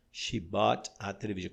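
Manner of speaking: "She bought a television" with each word kept apart and the t of "bought" fully sounded; careful, word by word. Shown as a demonstration. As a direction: spell out each word for beginners. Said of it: "Quando a gente fala mais fluido".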